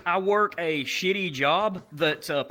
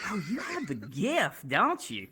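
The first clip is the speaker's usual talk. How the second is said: swooping, softer camp tour guide voice; lightly voiced flamboyant tour guide; 2 semitones higher, 4 dB quieter than usual. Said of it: "the gay dude, the tour guy".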